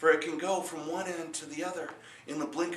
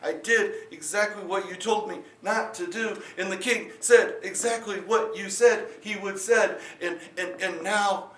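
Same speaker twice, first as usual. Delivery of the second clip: high, fretful, babbling worry; a father wringing his hands over trouble; panicked father; 5 semitones higher than usual. Acted. Panicked father tells daughter.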